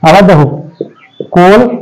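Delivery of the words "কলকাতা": কলকাতা split into কোল, কা, তা with long pauses; three isolated beats for কলকাতা; syllable by syllable. Shown as a demonstration. Teacher showing three syllables to students, কলকাতা broken apart. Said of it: "কলকাতা তিনবারে উচ্চারণ হচ্ছে".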